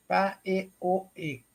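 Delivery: "pa, e, o, e" read out as separate syllables; sounding out a misspelling. Retold or imitated. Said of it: "Escreveu na lousa".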